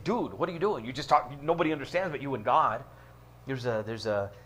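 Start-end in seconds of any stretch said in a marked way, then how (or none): 0.0-2.8 sarcastic edge. Retold or imitated. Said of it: "an edge of sarcasm there".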